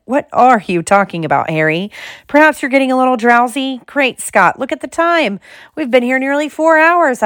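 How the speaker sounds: high-pitched, animated astonishment; astonished. A narrator's reading. Lockhart notices the time with Harry, astonished. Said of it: "in high astonishment".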